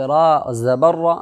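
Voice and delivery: slow, drawn recitation of letters; spelling out syllables. Shown as a demonstration. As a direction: sound out each letter slowly like a Quran teacher. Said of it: "इनका इजरा कैसे करोगे".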